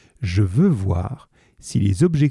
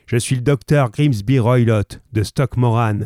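se présente avec emphase, un peu plus fort; brute arrogante; 3 dB louder than usual. Acted. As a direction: impose son nom comme une menace. (brute arrogante qui s'annonce)

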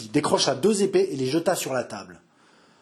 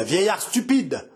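roaring; 5 semitones higher than usual. Acted. Henri roaring to the father about his daughter. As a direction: hammer out each word in rage. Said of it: "rugit-il".

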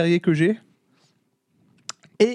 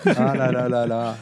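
laughing; 5 semitones lower, slower than usual. Real, not acted. Amused sigh at a friend.

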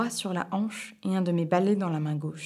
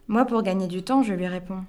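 ordinary delivery, nothing marked

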